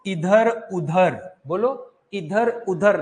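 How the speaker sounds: इधर उधर very slow, nothing through the nose; oral vowel demo. Shown as a demonstration. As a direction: spell out इधर उधर slowly, purely oral. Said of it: "जैसे कि बोलो".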